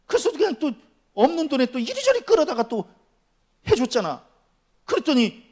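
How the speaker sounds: high, loud mock-aggrieved rant; indignant preaching. Pastor scolding the borrower who never repaid, indignant. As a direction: complain hotly, pitch pushed up.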